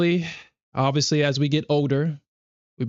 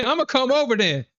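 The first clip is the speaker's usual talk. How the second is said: higher, hammed-up angry threat; playful fake fury; mock tough-guy rant; 11 semitones higher than usual. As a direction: pretend to menace the scammer, half laughing. Continues threat to scammer.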